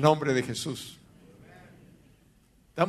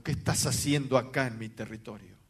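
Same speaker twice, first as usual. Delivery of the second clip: hoarse demon voice; 6 semitones lower than usual. Retold or imitated. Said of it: "Con una voz ronca me dijo".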